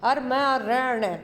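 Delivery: slow, careful syllable by syllable; slow spelling out. Shown as a demonstration. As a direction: spell out म and रण slowly. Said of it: "ऐसे लिखा जाएगा". (धीरे-धीरे अक्षर अलग करके)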